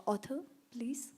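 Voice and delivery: ordinary talk, nothing marked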